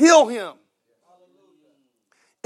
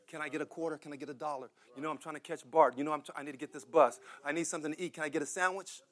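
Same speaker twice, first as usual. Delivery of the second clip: beggar's plea; 5 semitones lower, 18 dB quieter, faster than usual. Retold or imitated. Preacher voicing beggars asking for change.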